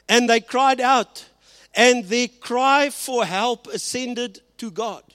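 stretched out for weight; emphatic slow reading. Acted. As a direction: lean on each word slowly. Preaching the cry, slowed.

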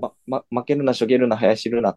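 flat monotone line reading; bad acting. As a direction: stiff deadpan delivery. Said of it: "めっちゃ棒読みなんよ".

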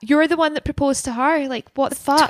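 real exasperated fury at the scene; outraged disbelief. Real, not acted. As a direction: let the outrage spill over. Outraged at Neil's trial remark.

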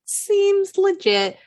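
slow, lifted sarcastic drawl; dry slow irony, voice up; ironic. Real, not acted. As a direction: say it with mock sincerity. Ironic comment on joke.

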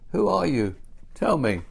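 loud, high, urgent demand; crying out. A narrator's reading. Old shoemaker struggling out of his chair to strangers, crying out. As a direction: call out insistently for an answer. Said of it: "cried the old shop shoemaker".

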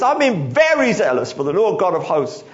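hammed-up furious complaint to God; a preacher acting out Elijah's angry protest; angry man. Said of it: "this man who's angry".

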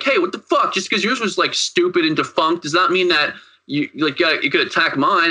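light, retold outrage, starting high and easing down; mock indignation. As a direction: act out an offended challenge. Acting out Omar's angry confrontation.

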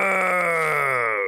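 mock gladiator shout; booming no. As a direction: bellow it like an arena crowd. Gladiatorial thumbs down noise.

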